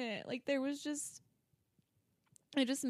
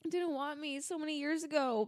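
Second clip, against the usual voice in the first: tearful; 3 semitones higher than usual. Real, not acted. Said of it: "I can't believe I'm crying".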